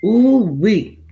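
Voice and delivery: high, loud drawn-out ooh-wee; excited whoop. Real, not acted. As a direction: whoop it out to greet the crowd. Excited opening shout to viewers.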